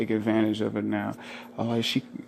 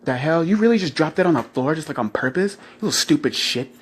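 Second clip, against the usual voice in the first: mock girlfriend scolding; 5 semitones higher than usual. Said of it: "She be like".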